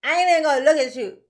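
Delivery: mock a grown man sulking; sulky Daryl. Commentator mocking Daryl's sulk at the judge, pouting. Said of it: "Daryl's like".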